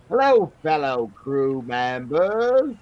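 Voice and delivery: slow, loud Cockney greeting to sailors; Cockney accent. Acted. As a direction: hail the crew in Cockney. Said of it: "my best Cockney accent".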